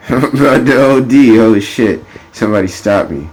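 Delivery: high, loud burst easing toward normal; hammed-up excited outcry over a wild binge; mock-panicked partier. Playing rich champagne drinkers freaking out, hammed-up excitement. Acts out partying rich people.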